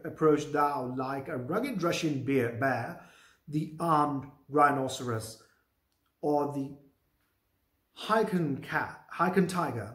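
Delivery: slow, deliberate Shakespeare read-aloud; measured dramatic recitation; play reading. Acted. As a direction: read the verse out slowly, word by word. Reads Macbeth's lines.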